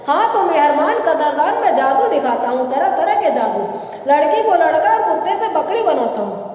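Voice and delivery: rhythmic street-magician spiel; magician's patter. Shown as a demonstration. Magician boasting of his tricks to the crowd, showman's patter. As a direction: pitch your tricks like a roadside showman. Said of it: "वो इस तरह बोलते हैं".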